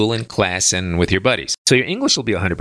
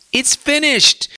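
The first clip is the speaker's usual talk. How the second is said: excited reveal; slower than usual. Real, not acted. Big reveal after "guess what?.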